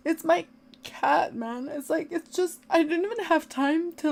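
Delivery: high, tearful grief; crying. Real, not acted. Owner with no time to mourn the cat, crying. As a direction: protest the loss through real tears. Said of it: "I'm crying 'cause of".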